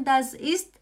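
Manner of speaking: das ist mein Opa said slowly, every word clear; slow model sentence. Shown as a demonstration. Teacher modelling for students, slow and deliberate. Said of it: "Você pode falar também".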